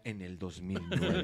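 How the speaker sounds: low, slow demonic voice; mock demon growl. Shown as a demonstration. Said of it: "me pones voz diabólica".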